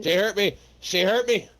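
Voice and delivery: whiny hurt complaint; mock whine. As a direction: play the wounded victim. Mock whining after joke hit.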